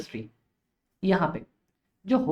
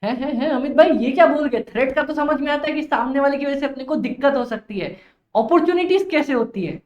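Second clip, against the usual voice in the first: higher-pitched mock interruption from a confused pupil; puzzled student; 4 semitones higher than usual. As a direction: play a student questioning the teacher. Voices a puzzled student interrupting him. (उलझे छात्र की नकल)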